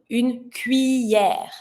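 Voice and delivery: slow cuillère with ll said as y; y sound. Shown as a demonstration. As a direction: stretch cuillère with a y glide. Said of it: "same, y sound".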